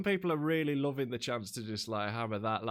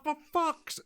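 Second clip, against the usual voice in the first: exasperated. Retold or imitated. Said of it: "I'll be like".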